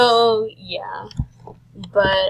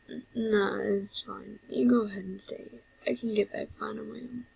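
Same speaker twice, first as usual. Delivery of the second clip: understated reassurance from an unwell brother; lightly voiced evasive Sans; 7 dB quieter than usual. Sans telling brother to stay, mildly evasive.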